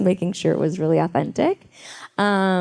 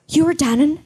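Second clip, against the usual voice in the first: higher-pitched imitation of an Irish stewardess; 7 semitones higher than usual. Flight attendant recognizing the actress, mock Irish accent. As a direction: put on an Irish lilt, incredulous and high. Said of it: "stewardess was like".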